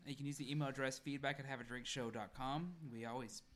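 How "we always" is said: hiccuping mid-sentence; hiccup giggles. Real, not acted. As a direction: talk through hiccups and burps. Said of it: "I'm hiccuping and burping".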